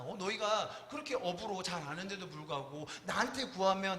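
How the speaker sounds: soft, quiet, tender reassurance; gentle Jesus. Retold or imitated. Jesus comforting scared disciples, soft and tender. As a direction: speak softly like comforting frightened friends. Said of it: "말을 어떤 뉘앙스로 하느냐에 따라".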